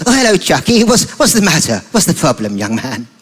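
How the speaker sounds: lightly voiced kindly granddad; a hint of a gentle old grandfather. Grandfather greeting upset Chucky, lightly voiced kindly. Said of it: "granddad sort of voice".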